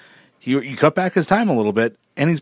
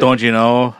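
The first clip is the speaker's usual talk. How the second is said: louder mock Minnesotan catchphrase; Minnesotan accent; 5 dB louder than usual. Co-host showing how northern Minnesotans talk, mock Minnesotan accent. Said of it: "you get the Minnesotan accent".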